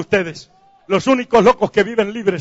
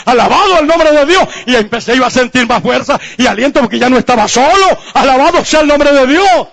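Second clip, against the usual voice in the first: high, driving testimony to a congregation; raised-pitch Pentecostal preacher delivery; full-force preaching; 4 semitones higher, 4 dB louder than usual. Real, not acted. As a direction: preach it out with rising praise.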